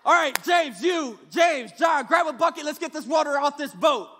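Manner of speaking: shouting orders over a storm; shouted orders. Retold or imitated. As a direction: bark commands to the crew.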